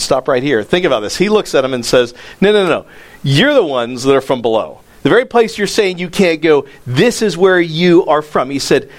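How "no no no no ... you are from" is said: emphatic rebuke of the leaders; forceful rebuke. Retold or imitated. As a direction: push back hard on them.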